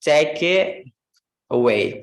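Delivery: "take it away" slowed and linked; connected speech demo. Shown as a demonstration. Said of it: "And last one".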